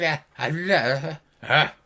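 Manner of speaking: batty gnome noises; wordless gnome babble. Acted. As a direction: gabble "ah" sounds like a batty gnome. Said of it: "She's like".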